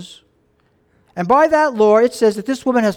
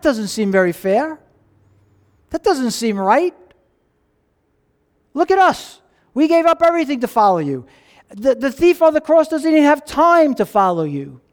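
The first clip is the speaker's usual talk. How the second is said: indignant complaint; 4 semitones higher than usual. Acted. Disciples complaining it's unfair.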